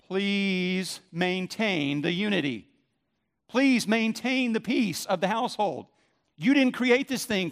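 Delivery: lightly voiced parent pleading with the kids.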